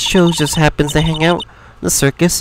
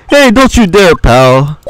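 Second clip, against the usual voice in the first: warning; 4 dB louder than usual. Acted. Warns the other off.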